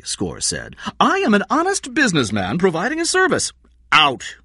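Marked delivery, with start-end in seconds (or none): 1.0-3.5 crook voice. Acted. Crook Score protests to detectives. 3.9-4.4 loud, higher shout. A narrator's reading. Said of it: "Meyer shouted".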